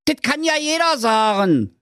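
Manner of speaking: grumbling. Acted.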